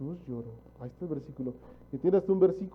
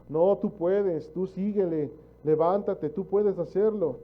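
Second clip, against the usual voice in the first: slow, louder mock cheerleading of the world; mock pep talk; 3 semitones higher, 4 dB louder, slower than usual. Preacher mimicking the world's voice urging you on, mock pep talk. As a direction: imitate a pushy motivator. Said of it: "este mundo te está enseñando".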